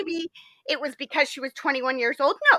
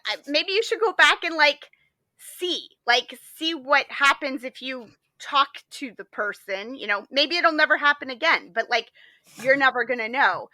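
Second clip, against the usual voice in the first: lightly voiced uncle giving counsel; priest uncle; 3 semitones higher than usual. Priest uncle advising his niece, in a hammed-up voice. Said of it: "He says".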